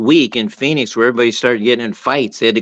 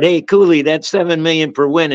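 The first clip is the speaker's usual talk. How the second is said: higher-pitched mock yell; retold heckle; 3 semitones higher than usual. Student heckling the coach over his contract, imitated yell. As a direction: imitate a student calling out, only mildly raised. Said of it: "the kid yells out".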